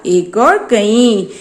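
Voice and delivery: "एक और कई" spelled out slowly, each word apart; slow drilled answer. Shown as a demonstration. Teacher drilling the class on one and many, slow and deliberate. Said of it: "क्या सीखा?".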